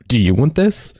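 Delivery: lightly sarcastic offer. Acted. Imagining how a lady offered it, sarcastic. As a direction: ask it with a touch of sarcasm. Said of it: "sarcastically, if she said".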